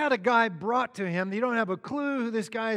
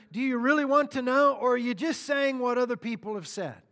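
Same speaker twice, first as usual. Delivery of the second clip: firing back; 4 semitones higher than usual. Retold or imitated. Jesus fires back to Pilate, pointedly. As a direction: challenge him with a raised, emphatic question. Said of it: "so he fires back".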